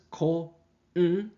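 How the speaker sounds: ko-n-ni-chi-wa split into five slow, separate syllables. Shown as a demonstration. Teacher breaking konnichiwa into syllables for students, slow.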